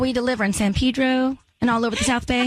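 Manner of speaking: over-the-top Southern attempt; badly faked Southern accent. Host pitching flower delivery to a skeptical co-host, hammy Southern. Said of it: "let's hear Southern".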